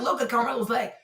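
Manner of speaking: ordinary talk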